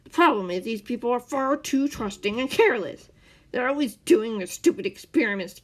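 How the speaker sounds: loud furious rant. A narrator's reading. The man ranting at Scar about his spy mission, loud. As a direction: pour out the grievance, building. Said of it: "the man ranted".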